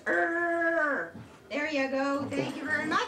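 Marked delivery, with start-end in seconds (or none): 0.0-1.1 playful little lion growl. Shown as a demonstration. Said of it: "A lion goes".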